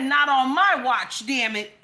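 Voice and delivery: emphatic quote, hitting MY; mock presidential declaration. Quoting Trump to the viewers, mock-firm declaration. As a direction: lay down the law, half in jest. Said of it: "He said".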